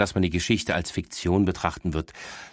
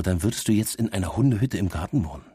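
ordinary delivery

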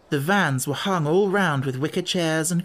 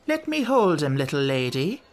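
coaxing gypsy woman. Acted. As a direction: coax the girl sweetly.

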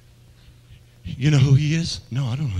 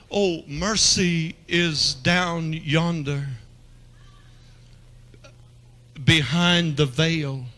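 slow, drawn-out preaching; slow sermon cadence; slower than usual. Acted. Preacher painting mercy behind the veil, slowly. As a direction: stretch each phrase out.

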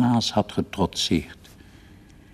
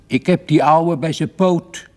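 high-pitched excited cry from the father; excited call; 8 semitones higher, 4 dB louder than usual. A narrator's reading. Father tugging a leg in the chimney, calling out. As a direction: call it out while hauling on a leg. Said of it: "riep die".

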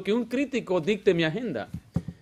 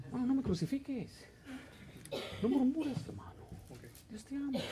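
mock plea; 5 semitones higher, 16 dB quieter than usual. Pastor pleads mockingly with congregation.

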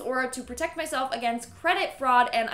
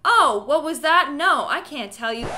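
louder, unhinged creepy inner monologue; 7 dB louder than usual. Acted. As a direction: ramble like an obsessed creep. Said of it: "Dude is having a full-on monologue".

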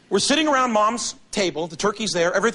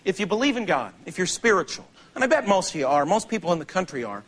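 sincere; 3 semitones lower than usual. Real, not acted. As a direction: drop it down and mean it. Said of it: "let me say something in all sincerity".

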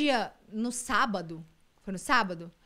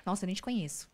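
deboche; 3 semitones lower, 6 dB quieter than usual. Retold or imitated. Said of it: "ela é muito debochada".

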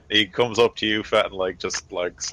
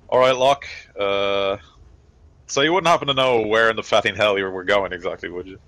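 gruff soldier voice; 3 dB louder than usual. Acted. GM voices Voxbox confronting pilot.

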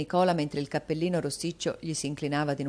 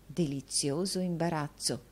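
tra sé, a voce più bassa; pensiero sommesso; 6 dB quieter than usual. Acted. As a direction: lo dice a se stessa, compiaciuta. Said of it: "pensava la signorina Squeers". (pensiero interiore, sottovoce)

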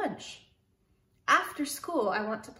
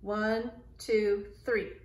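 counting; much slower than usual. Shown as a demonstration. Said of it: "we count back three".

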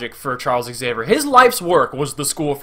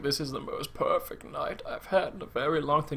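very soft, hushed imitation; tender bedside hush; Patrick Stewart in bed; 12 dB quieter than usual. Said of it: "when he's in the bed and he's like".

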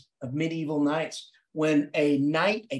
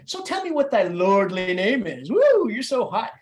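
playful taunt, louder at the end; joking with the bird; 2 semitones higher, 4 dB louder than usual. Acted. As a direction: tease the bird, swooping up into mock admiration. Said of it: "I'm joking with the, the damn bird".

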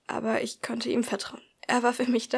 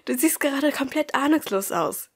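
laughing; 4 semitones higher than usual. A narrator's reading. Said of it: "zu lachen begann".

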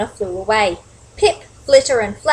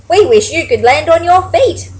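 high, loud little-bird voice; animated character reply, pitched up; Flitter's retort; 7 semitones higher, 7 dB louder than usual. A narrator's reading. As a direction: answer back as a storybook bird. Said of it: "Flitter replied".

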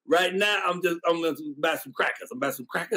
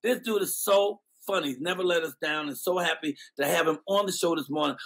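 usual speaking voice

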